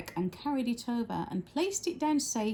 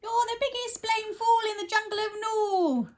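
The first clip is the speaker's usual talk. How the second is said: much higher jeering voice; high mocking kangaroo; 11 semitones higher than usual. The kangaroo mocking Horton, high-pitched. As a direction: taunt him from the pouch.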